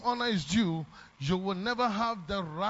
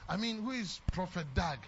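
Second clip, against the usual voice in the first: mocking ungrateful member; 4 semitones lower, 5 dB quieter than usual. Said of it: "some of us who say that".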